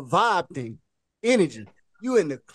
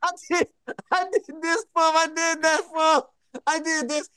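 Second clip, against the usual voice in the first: hammed-up weepy protest, pitched up; mock crying; 6 semitones higher than usual. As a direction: imitate a girl wailing her grievance. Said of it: "she crying".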